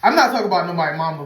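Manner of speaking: laughing high while saying it. Real, not acted. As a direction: crack up mid-sentence. Repeats joke laughing.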